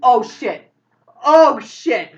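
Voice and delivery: loud, high panicked exclamation; scared out of mind. Acted. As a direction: cry out in horror at your own accident. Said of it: "Carrie seems scared out of his mind".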